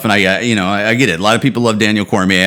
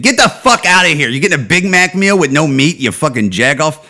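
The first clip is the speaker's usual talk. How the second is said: angry outburst; 5 semitones higher than usual. Pretend. Driver yelling at the passenger to get out, angry. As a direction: tell the meat-free Big Mac guy off.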